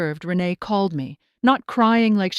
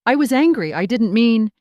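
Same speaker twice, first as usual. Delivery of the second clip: defensive outburst; 3 semitones higher, 6 dB louder than usual. Acted. Daughter excusing herself.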